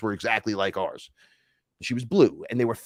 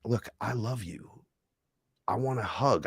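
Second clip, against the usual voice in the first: tender appeal; 7 dB quieter than usual. Retold or imitated. Telling a woman he wants a hug, tender. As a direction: say it gently and sincerely.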